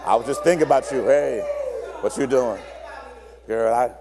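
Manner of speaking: low sweet clingy voice; clingy partner. Acted. Clingy partner greeting someone seen that morning. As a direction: coo at them like you missed them.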